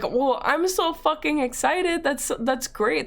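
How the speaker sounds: slow, emphatic mock enthusiasm; imitating a boyfriend's drawn-out delight; retold excitement. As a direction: gush slowly, starting high.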